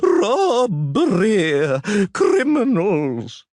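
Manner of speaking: yelled. A narrator's reading. Official yelling from floor.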